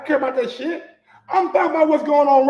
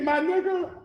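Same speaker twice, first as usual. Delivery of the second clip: ordinary talk, nothing marked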